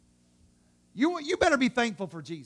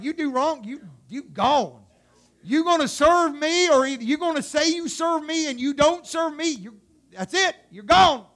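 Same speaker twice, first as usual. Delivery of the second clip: stern God; 4 semitones higher, 5 dB louder than usual. Acted. Acts out stern Old Testament God.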